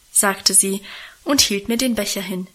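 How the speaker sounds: ordinary delivery, nothing marked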